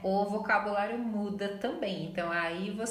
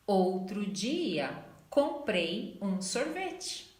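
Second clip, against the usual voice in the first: slow model sentence; much slower than usual. Shown as a demonstration. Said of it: "Em português fica".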